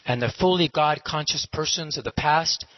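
formal recited narration, slightly lifted pitch; measured, declamatory closing commentary; narrator's moral. Acted. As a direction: deliver the moral like a storybook narrator. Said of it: "And then the narrator says".

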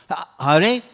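put-on old woman raising the alarm, loud; loud outcry. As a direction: cry out to the village. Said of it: "started crying very loudly".

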